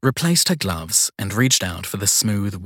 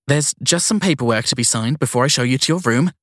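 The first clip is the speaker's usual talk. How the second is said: apologetic; 4 semitones higher, 3 dB louder than usual. Acted. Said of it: "the note of apology in her voice".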